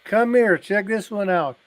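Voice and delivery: mock high, slow drunk lady voice; tipsy lady. Half-drunk lady stomping round the graves, in a mock high, slow voice. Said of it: "she's half drunk and she's stomping around".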